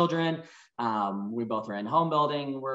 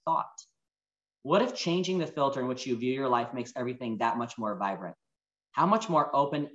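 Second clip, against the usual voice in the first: reading a heartfelt message. Acted. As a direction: read it like a letter to a loved one. Reads sister's message aloud to audience.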